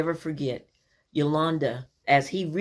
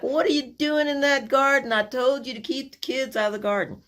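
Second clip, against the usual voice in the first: higher, sharp scolding dad; scolding grandpa; 10 semitones higher than usual. Retold or imitated. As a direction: call the kids out, a mock-stern telling-off. Grandpa scolds kids over garden.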